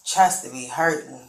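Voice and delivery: suddenly loud, upset protest. Real, not acted. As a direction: push back loudly, upset. Suspect protests breath test.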